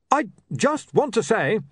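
slow, deliberate barbarian complaint; slowly. Acted. Breezok starting his complaint to William. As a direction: draw each word out with care. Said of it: "said Breezok slowly".

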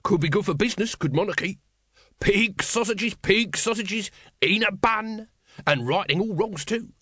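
high, bouncy hawker's voice; street vendor's patter. Acted. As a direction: mix chat with sales cries. Vendor mixes chat with cries.

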